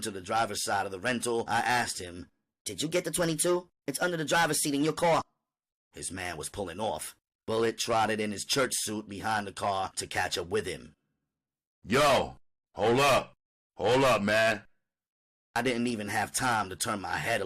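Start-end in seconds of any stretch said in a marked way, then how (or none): 2.6-5.2 fast urgent question. Acted. Winter urgently reminds Bullet. 11.8-14.7 loud call after the car. Acted. Bullet calls after a car.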